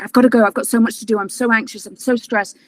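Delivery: high, loud, rushed panic; stressed, hurried protest; frantic. Retold or imitated. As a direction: blurt it out like you're overwhelmed. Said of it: "I'm freaking out".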